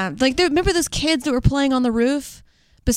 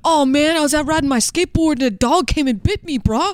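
skater dude; 2 semitones higher than usual. Pretend.

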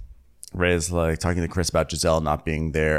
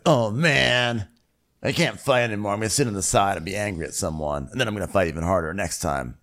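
mock sulking. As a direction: play a sulky movie boxer. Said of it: "he's sulking around like he's".

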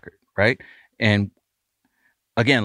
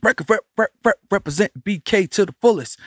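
scratch imitation; 9 semitones higher than usual. Mimics a scratched vocal line.

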